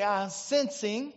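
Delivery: lightly imitated North Carolina accent, drawn out; slow mock Southern preacher accent; Ernest Angley's accent. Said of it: "in his great accent".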